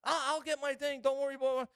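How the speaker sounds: very high wailing imitation; hammed-up tearful squeal; mock crying. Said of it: "Then she starts crying".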